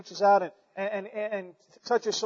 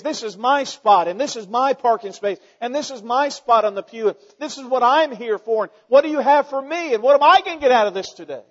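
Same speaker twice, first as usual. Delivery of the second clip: selfish churchgoer; 3 semitones higher, 4 dB louder than usual. Retold or imitated. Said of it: "All they want to say is".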